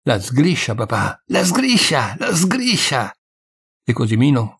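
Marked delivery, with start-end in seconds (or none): 0.0-3.1 urgent cry, rising higher on the repeat; breathless alarm. A narrator's reading. Son alerts his father to the old servant, breathless alarm. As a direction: raise the alarm like a winded boy. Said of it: "tutto trafelato".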